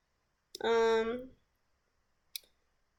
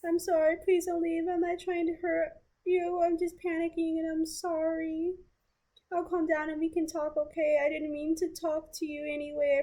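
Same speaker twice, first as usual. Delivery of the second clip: voicing the ex higher, apologetic and anxious; pleading ex; 6 semitones higher than usual. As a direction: beg her not to leave, rushed and panicky. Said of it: "He said".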